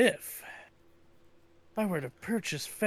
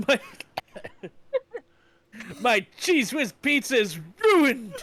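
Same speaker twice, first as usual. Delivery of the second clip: mock crying; 5 semitones higher, 3 dB louder than usual. Dramatic reading of pizza ruined.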